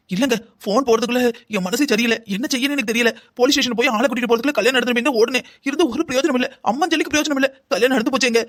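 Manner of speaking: helpless, rising wail; distraught lament. Acted. Distraught mother recounts the wedding. (தவிப்புடன் புலம்பும் குரல்)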